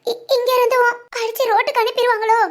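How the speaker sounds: stammering, fearful question to a friend; frightened. Acted. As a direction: falter on the first word, afraid of what comes next. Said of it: "இப்படி பயப்படாத". (பயந்து தடுமாறிக் கேட்டல்)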